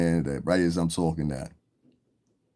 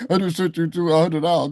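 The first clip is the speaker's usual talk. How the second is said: high, louder mimicking voice; mock lying donor; 9 semitones higher, 5 dB louder than usual. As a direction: mimic a boaster mockingly.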